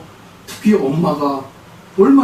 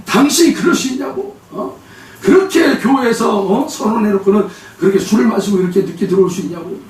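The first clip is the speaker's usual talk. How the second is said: higher, sharp retold scolding; snapping at him; 5 semitones higher than usual. Wife scolding her husband the moment he walks in, snapping. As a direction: lay into him at the door. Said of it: "이 아내가 막 쏘아붙이는".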